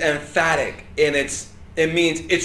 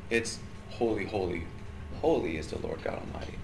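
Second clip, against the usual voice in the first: reverent recitation; 9 semitones lower, 17 dB quieter than usual. Acted. Reciting the scripture line.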